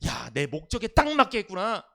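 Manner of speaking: a hint of God's pleased cry; delighted exclaim. Pastor voices God exclaiming over Jesus, mildly delighted. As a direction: cheer that it went to plan. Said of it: "감탄하는 거야".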